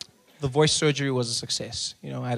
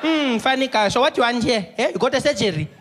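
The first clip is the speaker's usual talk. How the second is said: caricatured vengeful clerk; gloating receptionist; 10 semitones higher, 8 dB louder than usual. Acted. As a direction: savour having the upper hand. Receptionist taunting the patient.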